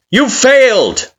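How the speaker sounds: high, loud, slow jeering shout; taunting yell. Acted. Kara jeering at you in the dream, slow loud yell. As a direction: drag it out to rub it in.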